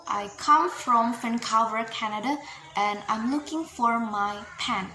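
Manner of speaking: "Vancouver" and "pen" given extra weight; new information stress. Shown as a demonstration. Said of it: "new information stress".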